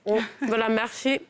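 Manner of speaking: talking through a mouthful; chewing while talking; mouth full. Real, not acted. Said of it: "je vais pas parler la bouche pleine".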